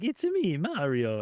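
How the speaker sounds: quick hammed-up Mario voice; a lightly voiced Mario bit; Mario impression. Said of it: "I can do a Mario".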